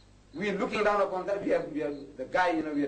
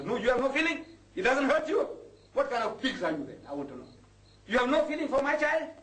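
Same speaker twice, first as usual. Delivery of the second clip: scolding; 4 semitones higher than usual. Real, not acted. Preacher scolding the community.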